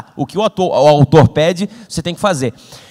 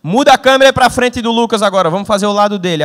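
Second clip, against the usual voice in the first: director giving orders; 4 semitones higher, 4 dB louder than usual. Retold or imitated. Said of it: "Ele fez".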